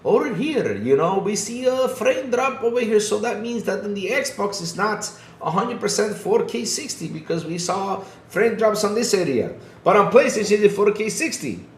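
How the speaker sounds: high, put-on British reviewer accent; mock British accent. Mocking Digital Foundry reviewers in a high British accent. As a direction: parody a British tech reviewer. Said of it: "with the British accent".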